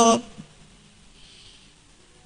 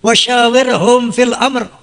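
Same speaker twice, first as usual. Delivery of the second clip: Quranic recitation; slower than usual. Acted. Quoting Quran verse in sermon.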